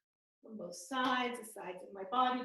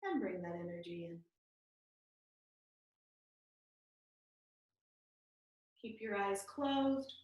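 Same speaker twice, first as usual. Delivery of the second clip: guided meditation; 3 semitones lower, 3 dB quieter than usual. Real, not acted. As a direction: ease them out gently, with long pauses.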